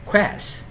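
"Quest" pitched high and falling, with a hissed s; trọng âm đọc cao. Shown as a demonstration. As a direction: lift "Quest" high as the stressed syllable. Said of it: "đọc cao lên một xíu". ("Quest" lên giọng cao, rõ âm s)

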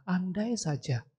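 mildly rueful, soft and wistful on each wish; understated guilty lament; retold regret. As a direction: voice her remorse with restraint. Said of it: "Dia kembali merasa bersalah".

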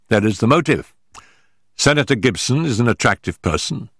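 a lightly voiced Holmes reasoning the case through. Holmes explaining the evidence to Watson, measured detective voice.

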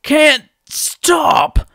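high whispered panic; toppling Toa in alarm; panicked. A narrator's reading. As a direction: gasp it out as you topple. Whenua toppling forward.

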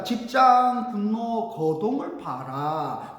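slow, stretched refrain; measured, declaimed verse; pansori recitation. Shown as a demonstration. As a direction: draw out each word like a chanter.

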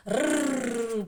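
put-on a playful rolled growl for kids; tiger growl. Teacher growls like a tiger for the children. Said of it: "заричав на нас всіх".

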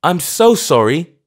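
high, loud, meek apology; meekly, high-pitched old clergyman; meek old vicar. A narrator's reading. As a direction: shrink as you say sorry. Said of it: "he said meekly".

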